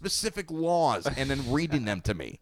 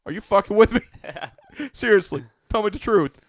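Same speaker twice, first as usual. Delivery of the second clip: high, loud incredulous yell; disbelieving shout; 8 semitones higher, 8 dB louder than usual. Retold or imitated. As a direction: demand it, half laughing. Mock disbelief at donor.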